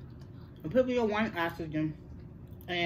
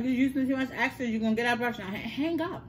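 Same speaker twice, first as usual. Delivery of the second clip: imitating mother; 5 semitones higher than usual. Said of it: "She was like".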